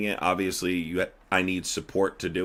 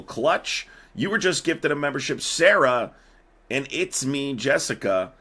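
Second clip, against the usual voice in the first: higher, upbeat name calls; excited callout; 5 semitones higher than usual. Real, not acted. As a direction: call each name out happily. Calling out gifted member names.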